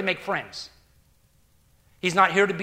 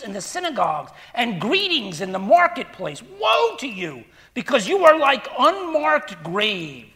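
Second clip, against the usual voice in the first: forceful scripture preaching; 3 semitones higher than usual. Acted. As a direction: thunder out Jesus' rebuke to the Pharisees. Preacher reads Jesus' woes aloud.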